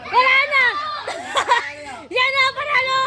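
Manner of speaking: shouting. Real, not acted. Shouting during the game.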